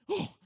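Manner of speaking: mock startled "oh"; short acted yelp of fright; startled gasp. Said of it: "scares one another".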